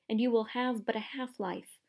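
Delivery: whispered, ominous warning; grave whisper. Acted. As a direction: breathe the curse out in a hush. Centaur's grave warning to Harry.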